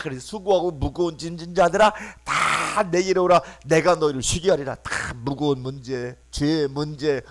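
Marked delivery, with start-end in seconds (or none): 0.2-4.8 loud, measured proclamation of the verse; scripture proclaimed. Acted. Preacher proclaiming Jesus' call to the weary. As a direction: declaim it like the voice of Christ.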